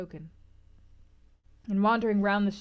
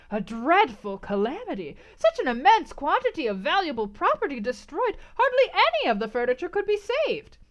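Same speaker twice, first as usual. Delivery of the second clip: excited innkeeper, higher and louder at the fire; the host relives the blaze; old butler telling; 4 semitones higher, 5 dB louder than usual. A narrator's reading.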